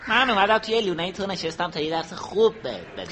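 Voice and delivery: unruffled reply; composed little hedgehog; calm. Acted. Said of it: "با خون سردی".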